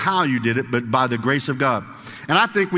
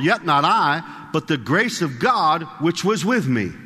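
slow, measured scripture reading. Acted. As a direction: read it slowly, letting each phrase land. Reads scripture slowly.

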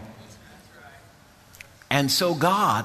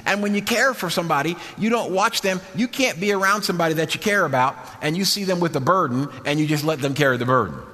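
raised-pitch sermon delivery; earnest preaching; 4 semitones higher than usual. Real, not acted. Preacher explains caring to congregation, earnest preaching. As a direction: preach it high and insistent.

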